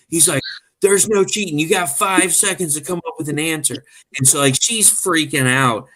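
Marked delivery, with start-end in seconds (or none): 0.8-3.8 imitated celebrity laying down rules, pitched up; higher, insistent quizmaster on the phone; put-on caller giving an ultimatum; a singer. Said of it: "you pretend you're the singer".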